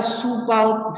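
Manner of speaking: "supau" held high and level; both first tone. Shown as a demonstration. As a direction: keep both syllables of "supau" on one high note. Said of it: "sama-sama nada pertama".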